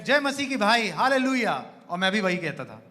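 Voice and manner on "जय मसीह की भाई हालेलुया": raised, hearty mock hallelujah; imitated church greeting. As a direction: echo an eager churchgoer's greeting. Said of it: "वो कहते थे". (जोशीले मसीही अभिवादन की नकल)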